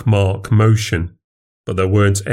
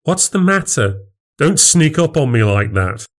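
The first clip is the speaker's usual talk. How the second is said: higher, rattled and defensive; startled snapping husband; 7 semitones higher than usual. Acted. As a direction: snap back, nerves jangled. Narrator caught, snapping at wife.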